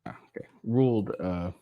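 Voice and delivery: unvoiced whisper under the breath; whisper to self. Real, not acted. Reading the court case, whispers to himself while finding his place.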